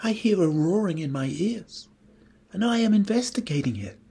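mildly timid little mouse. A narrator's reading. Blushing mouse explains himself to raccoon, mildly timid. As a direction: explain yourself with a touch of shyness. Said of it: "then said timidly".

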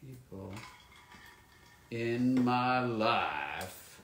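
very slow, word-by-word dictation; writing aloud. Real, not acted. Signer writes a fan's quote, slowly sounding out each word.

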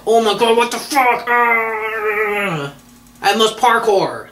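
high, loud hammed-up panic; mock frantic outburst. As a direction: play a frantic idiot who must parkour. Mock angry person quote.

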